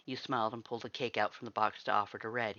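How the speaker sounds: ordinary delivery, nothing marked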